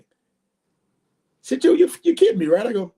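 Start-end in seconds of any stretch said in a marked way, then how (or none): 1.6-2.7 high-pitched disbelieving question; retold incredulity. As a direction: imitate a friend who can't believe it. Retelling friend's disbelief at boast.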